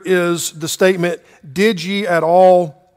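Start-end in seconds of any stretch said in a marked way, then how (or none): 1.5-2.9 "Did ye at all" drawn out slowly for emphasis; emphatic. Shown as a demonstration. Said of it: "two emphatic statements here".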